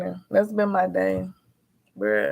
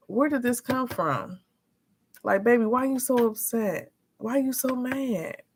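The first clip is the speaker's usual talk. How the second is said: higher, softer, puzzled mom voice; retold soft plea; 5 semitones higher, 4 dB quieter than usual. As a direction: gently ask an upset little one what's wrong. Voicing herself pleading with upset son.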